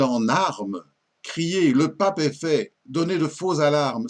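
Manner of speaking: measured verse reading with falling line ends; lightly declaimed French poem; poem recitation. Acted. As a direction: recite the sonnet phrase by phrase, building through the lists. Recites a sonnet after introducing it.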